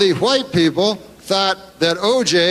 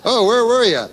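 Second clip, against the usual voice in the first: a touch higher, mock cop asking; mock questioner; 6 semitones higher than usual. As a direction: play the doubtful questioner lightly.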